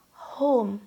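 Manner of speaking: breathy whispered longing for home. Real, not acted. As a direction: whisper it like a homesick sigh. Longing for Barbados.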